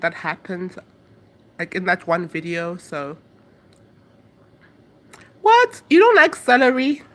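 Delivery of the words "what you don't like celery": surprised. Real, not acted. Reacting to a chat comment.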